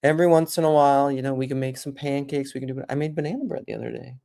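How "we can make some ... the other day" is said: usual speaking voice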